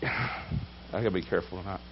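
hushed aside to the church before a hard word; quiet aside. Real, not acted. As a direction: drop it to a near-murmur aside.

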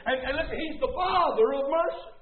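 urgent pulpit delivery; fervent preaching. Real, not acted. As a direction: preach it with rising fervour. Preaches at full force.

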